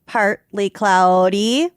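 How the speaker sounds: mock TV weather report; weather person voice. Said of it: "I sound like a weather person".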